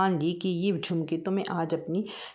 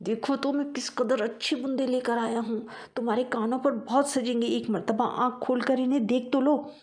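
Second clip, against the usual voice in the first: pleading; 5 semitones higher than usual. Acted. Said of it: "मिन्नत समाजत करते हुए कहा".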